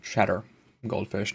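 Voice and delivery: talking while crunching snacks; crunching chips. Real, not acted. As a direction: speak through a crunchy mouthful. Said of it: "you can hear me crunching on that".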